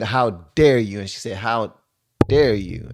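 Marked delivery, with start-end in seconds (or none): 0.0-1.0 imitating her indignant stress on "dare"; punched DARE. Vlogger mimicking the woman's phone-tapping rebuke, stress on "dare". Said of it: "when she said". 1.4-2.9 "How", a beat, then "dare you"; punched DARE. Retold or imitated. Vlogger copying the woman's phone tap, punched "dare". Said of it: "that sound made that".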